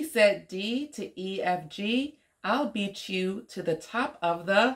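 put-on lilting, measured story reading for a child; picture-book read-aloud. A narrator's reading. Woman reading an alphabet story to young Omari, lilting read-aloud. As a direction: read it out rhythmically with playful swoops.

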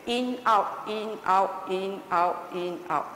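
even, beaten in-out rhythm; marching breath count. Shown as a demonstration. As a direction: count breaths like steps on parade. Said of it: "discipline yourself like you are on parade".

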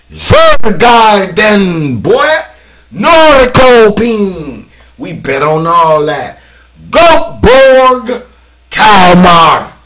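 loud, slow stretched team calls; hype call. Real, not acted. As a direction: announce each club like a ring announcer. Calling out Swedish teams.

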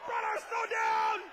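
loud, drawn-out yell of "Brother, slow down!"; slow shout into the ear. Retold or imitated. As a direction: bellow it slowly right into his ear. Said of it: "stick it behind my mouth".

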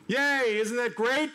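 high-pitched, celebratory cheer; high and gleeful, briefly; mock cheer. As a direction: cheer as if the story ended happily. Mock cheer at the happy outcome.

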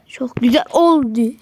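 hushed whisper to himself; sneaking whisper. Real, not acted. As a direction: keep it to a breath. Whispering while sneaking in game.

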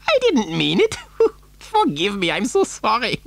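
high, giggly apology; giggling madly. A narrator's reading. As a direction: apologise through a mad little giggle. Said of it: "giggling madly behind his beard".

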